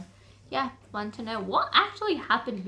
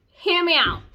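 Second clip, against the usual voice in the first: unvoiced, hushed plea to listen; whispered aside; 7 semitones higher, 5 dB louder than usual. Real, not acted. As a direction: lean in and whisper it. Conspiratorial aside to viewers.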